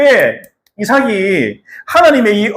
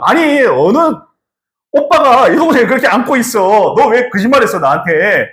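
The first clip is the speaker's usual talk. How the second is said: king's angry rebuke; 4 semitones higher than usual. Acted. Gerar king scolds Isaac for lying, angry rebuke. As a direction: confront him like a betrayed king. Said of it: "그 장면을 보고 뭐라고 하냐?".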